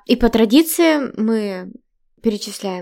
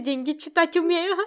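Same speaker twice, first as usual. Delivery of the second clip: put-on Central Asian Russian accent; 6 semitones higher, 7 dB quieter than usual. Repeating the Tajik woman quote.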